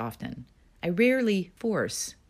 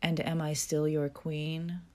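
more serious; slower than usual. Retold or imitated. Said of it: "somewhat more serious at this point".

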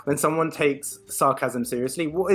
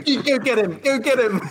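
high, laughing mock cheer; mock egging-on; 9 semitones higher, 4 dB louder than usual. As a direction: cheer them on in a higher voice, half laughing. Acting out replies piling on.

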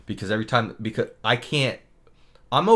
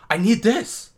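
higher, louder mock demand; nasty; 9 semitones higher, 5 dB louder, slower than usual. Dentist calls after the departing assistant, nasty snap. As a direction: imitate a snippy, insistent order. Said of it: "they were so nasty to each other".

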